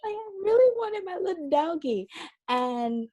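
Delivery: high, laughing, half-crying whine. Real, not acted. Laughing as she admits to her friend she cried for the dog. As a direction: laugh through a mock whimper.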